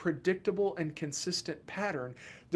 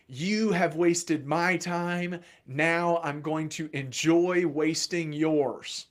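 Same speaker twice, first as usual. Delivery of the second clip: retold cold threat; 3 dB louder, slower than usual. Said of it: "I actually said to them".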